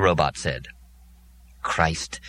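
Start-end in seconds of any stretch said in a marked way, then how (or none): 1.6-2.2 withering disdain. Acted. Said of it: "with withering disdain".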